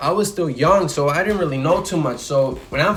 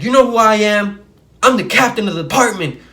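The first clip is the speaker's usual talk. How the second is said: louder, higher, puffed-up shout; police captain lording his rank over the driver; boastful angry cop; 4 semitones higher, 5 dB louder than usual. Retold or imitated. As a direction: throw your rank at him.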